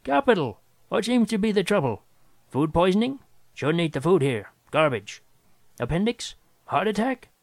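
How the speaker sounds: high, rapid eager chatter; eager, excited. Acted. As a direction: gush like a doctor desperate for work. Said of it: "he exclaimed".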